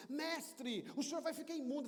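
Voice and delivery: a touch of alarm in a warning; alarmed bystander. Acted. Bystander warns the master at the bier, mildly alarmed.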